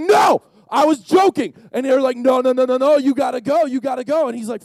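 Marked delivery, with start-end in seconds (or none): 0.0-1.5 high, loud backpedalling; panicked protest. Acted. Peter taking back his offer, panicked. 2.2-4.3 high, loud rapid repeats; insistent badgering. Disciples shoving Peter to go, insistent.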